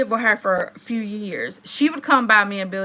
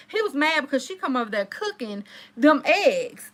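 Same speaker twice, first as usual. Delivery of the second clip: ordinary delivery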